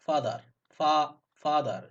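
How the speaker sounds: "father" with a long, open aa, stressed on the first syllable; long "aa" vowel. Shown as a demonstration. Teacher showing learners that A gives aa, long clear vowel in "father". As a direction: draw out the aa in "father". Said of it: "আ দেয়".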